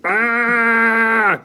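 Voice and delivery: high hammed-up shout of ah; a playful startled yell of ah. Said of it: "Mister Noisy shouted".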